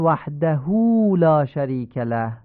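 «وحده» with the final hu cut short; clipped wrong vowel. Shown as a demonstration. Teacher demonstrates the clipped mistake, short final vowel. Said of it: "این حرکت هو باید اشباع بشه".

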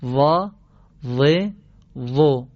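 «وا، و، و» with a heavy, throaty tongue-tip z; heavy zaa drill. Shown as a demonstration. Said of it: "شما هم ستایی جواب بدید". (تلفظ درشت و پرگلو «وا، و، و»)

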